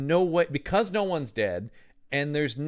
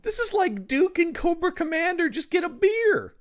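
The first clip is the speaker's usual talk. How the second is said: amused high joke. Real, not acted. Joking comparison, laughing.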